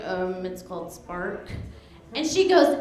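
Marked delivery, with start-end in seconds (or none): 0.0-1.5 low, soft, slow imitation of a mild husband; calm, reserved. Husband answering a stranger in line, calm and reserved. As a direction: play him unruffled, dropped low and quiet. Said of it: "my husband's very calm, reserved".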